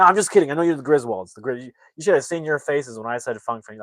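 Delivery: lightly acted, brushing off a prank; joking instructor. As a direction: tease them as the jokey instructor. Voicing the joking instructor character.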